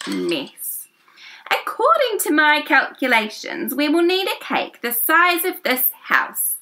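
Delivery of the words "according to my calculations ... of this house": smart creature. Acted. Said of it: "said something smart".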